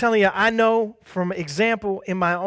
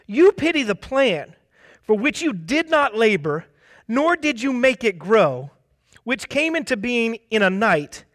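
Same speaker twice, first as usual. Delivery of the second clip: higher, emphatic divine rebuke; God lecturing Jonah; stern God; 5 semitones higher than usual. Retold or imitated. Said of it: "And the Lord said".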